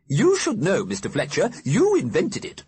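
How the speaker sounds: put-on imperious old lady ghost. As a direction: scold him like a grand old dame. Ghost quarrel at phone box.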